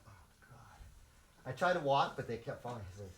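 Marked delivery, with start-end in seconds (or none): 0.1-0.8 scared mutter. Retold or imitated. Surrounded by a group of boys.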